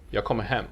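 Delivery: "jag kommer" blended together, emphasis on "hem"; stress on hem. Shown as a demonstration. Teacher showing learner how this is actually pronounced, stress on "hem". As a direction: stress only the last word, "hem". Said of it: "The last word has a sentence emphasis".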